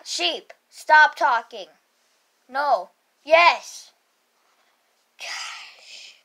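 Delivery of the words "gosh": breathy whispered gosh; fed-up teacher whispering gosh. Acted. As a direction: whisper it to yourself. Teacher exasperated under breath.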